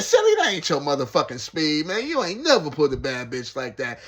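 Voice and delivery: loud, laughing put-down; laughing tease. Retold or imitated. Narrator mocking his cellmate's taste, laughing loud. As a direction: tease him through laughter. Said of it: "I said".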